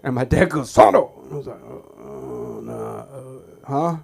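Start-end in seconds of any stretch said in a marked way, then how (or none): 0.7-1.1 high, very loud call of the name; mock dad yell. Dad calling for his son, loud and high. 1.6-4.0 put-on lower, mumbled innocent-kid stammer; sheepish kid. Boy denying to his dad, sheepish stammer.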